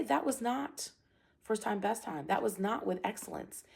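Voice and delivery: calmly delivered standard; calm correction. Shown as a demonstration. Coach correcting students after a drill, calm and measured. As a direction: correct without yelling, evenly paced. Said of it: "I just calmly say".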